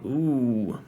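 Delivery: drawn-out, thoughtful ooh; a long ooh as an idea dawns. A narrator's reading. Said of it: "gave a long".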